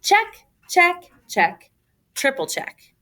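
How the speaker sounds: singsong checklist; playful checks. A narrator's reading. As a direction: tick them off in a singsong. Ticking off list.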